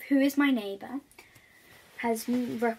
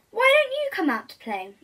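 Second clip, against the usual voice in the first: wolf voice; 10 semitones higher, 7 dB louder than usual. Acted. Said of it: "asks the wolf".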